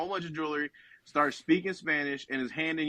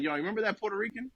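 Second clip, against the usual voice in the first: Jesus; 4 semitones higher than usual. Retold or imitated. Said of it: "Jesus is like".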